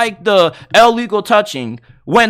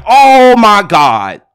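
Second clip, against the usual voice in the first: slow, louder drawn-out dismay; dismayed groan; 2 semitones lower, 6 dB louder, much slower than usual. Retold or imitated. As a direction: sink into disbelief at the call. Despair at penalty call.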